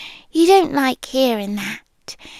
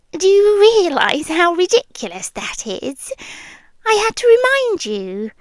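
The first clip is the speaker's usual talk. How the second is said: incredulous teasing; 6 semitones higher than usual. Acted. Teasing disbelief at the listener.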